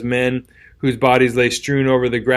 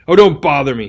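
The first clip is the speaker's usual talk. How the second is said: louder exasperated snap; 5 dB louder than usual. Acted. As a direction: brush him off in frustration. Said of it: "gave a cry of exasperation".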